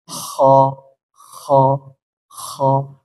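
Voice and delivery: "kho" with a light throat rasp, drawn out; slightly rasped kho. Shown as a demonstration. Teacher modelling the heavy letter kho, slightly rasped. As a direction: model each "kho" separately with slight friction. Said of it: "agak lebih ngorok sedikit".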